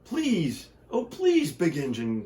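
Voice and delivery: high begging toy voices; desperate toys begging; toys crying out. Acted. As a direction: plead in little high voices. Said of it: "cried all the dolls and toys".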